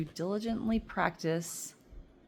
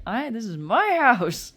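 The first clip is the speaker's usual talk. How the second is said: louder, slow and firm; firm assertion; 6 semitones higher, 9 dB louder, slower than usual. Retold or imitated. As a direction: put your foot down.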